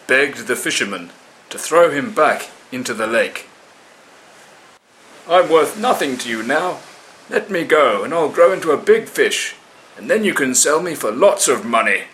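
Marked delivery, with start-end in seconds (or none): 5.3-12.1 higher, louder pleading fish voice; pleading small fish. Acted. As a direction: bargain for your life.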